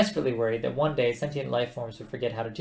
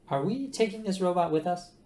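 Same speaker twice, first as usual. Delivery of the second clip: Ford voice; 7 semitones higher than usual. Acted.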